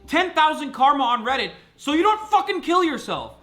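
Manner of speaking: real angry outburst at the chat; angry rant. Real, not acted. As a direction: rip into the chat, furious.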